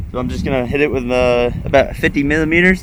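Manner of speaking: shouting over wind. Real, not acted. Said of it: "not sure if you guys can hear me over the, the wind".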